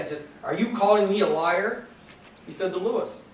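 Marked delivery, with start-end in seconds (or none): 0.4-1.9 mock furious judge. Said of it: "Judge King just looks furious".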